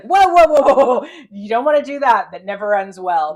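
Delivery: hammed-up frantic whoas, easing into a warning; alarmed interjection. Crowley cuts in to stop her cursing God, loud mock alarm. Crowley hurriedly halting an outburst.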